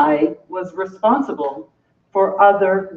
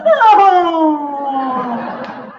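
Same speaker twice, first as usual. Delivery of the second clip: combo moan; 4 semitones higher than usual. Acted. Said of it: "The combo clip vaginal moan".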